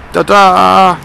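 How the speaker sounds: loud, high reveal shout; ta-da, like pulling off a cover; excited ta-da. Real, not acted. Unveiling the finished car.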